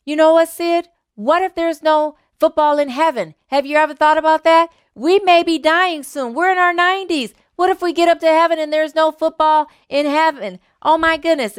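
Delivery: a lightly voiced worried buddy; worried old man. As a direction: fret about heaven having no football. Worried old friend voiced in joke.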